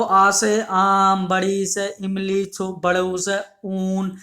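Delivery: slow, drawn-out classroom chant; small children reciting. Retold or imitated. Teacher showing how young pupils chant, slow sing-song. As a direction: stretch each word like pupils reciting. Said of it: "ऐसे करके बोल देते हैं बच्चे".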